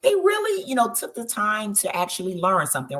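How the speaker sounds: gushing, half-crying thank-you reaction; touched almost to tears. Pretend. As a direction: play being so moved you nearly cry. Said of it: "You're like".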